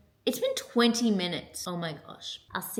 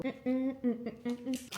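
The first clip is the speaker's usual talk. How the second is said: soft hums of enjoyment while chewing; happy food hums; 2 semitones higher, 10 dB quieter than usual. Real, not acted. Savouring a snack, to viewers, happy humming. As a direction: hum happily at the taste. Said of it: "I'm a happy, like, food dancer".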